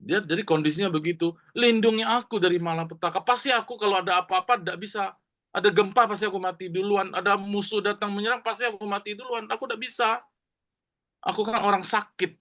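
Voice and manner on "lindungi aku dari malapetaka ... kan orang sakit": crying out to God. Acted. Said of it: "si Yabes berseru".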